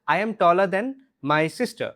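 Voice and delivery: taller stressed in a slow example sentence. Shown as a demonstration. Teacher stresses taller for students. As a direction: lean on taller, slow and clear. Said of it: "Second one is".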